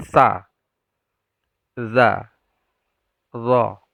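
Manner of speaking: clear, careful Arabic letters; letter sounds demo. Shown as a demonstration. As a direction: say each letter slowly and clearly. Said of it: "Jadi itu sama makhrajnya". (mengucapkan huruf dengan jelas)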